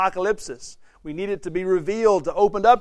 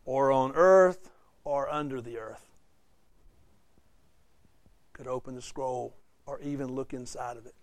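sad; 4 semitones lower than usual. Acted. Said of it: "this sad thing".

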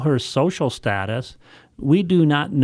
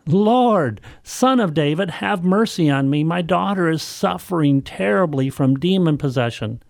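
raised pleading cry to the Lord; 5 semitones higher than usual. Acted. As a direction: call out, begging for mercy. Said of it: "crying out".

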